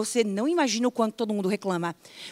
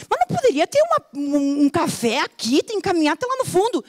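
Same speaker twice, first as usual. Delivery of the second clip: higher whiny gripe about the café; mock complaining; 6 semitones higher than usual. Traveller moaning that the café is far away. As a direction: moan about the long walk.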